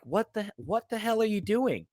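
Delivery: mock appalled. Fans reacting to a jinx, mock shock and appall. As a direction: act scandalized at a broken taboo. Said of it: "with such shock and appall".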